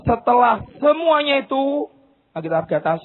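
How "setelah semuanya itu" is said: "semuanya" drawn out and stressed; slow emphatic quote. Shown as a demonstration. Preacher reads the verse slowly, stressing "semuanya". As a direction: linger on "setelah semuanya".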